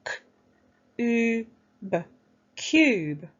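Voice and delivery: K, u, b pinched then blended into cube; sounded out. Shown as a demonstration. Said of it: "Let's pinch our sounds".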